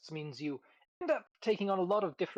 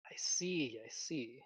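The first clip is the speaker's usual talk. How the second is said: whispering; 3 semitones lower, 7 dB quieter, much slower than usual. Real, not acted. Mulling it over.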